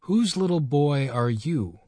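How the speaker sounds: put-on teasing a child kindly; kindly question. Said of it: "he demanded kindly".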